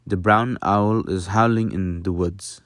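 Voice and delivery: mild Dutch accent; lightly Dutch-accented English, vowels barely changed. Shown as a demonstration. Teacher demonstrating that little changes, mild Dutch accent. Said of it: "with a Dutch accent".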